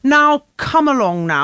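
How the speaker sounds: put-on posh old lady voice; slow, prim old lady. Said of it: "the voice that you put on sounded like it was an old lady".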